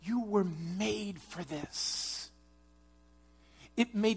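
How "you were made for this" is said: You were made for this said slowly, at usual pitch; slow, measured delivery. Real, not acted. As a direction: lay it down calmly, word by word. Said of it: "I'm telling you".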